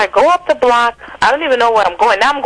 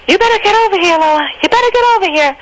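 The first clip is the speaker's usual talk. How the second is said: angry summons; 10 semitones higher, faster than usual. Retold or imitated. Girlfriend calling Lola back down the steps, angry. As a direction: yell after her, ordering her to come back.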